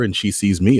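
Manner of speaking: normal talking voice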